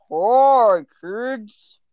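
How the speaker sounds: drawn-out cartoon frog greeting; Kermit. Shown as a demonstration. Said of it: "I can do kind of an impression of".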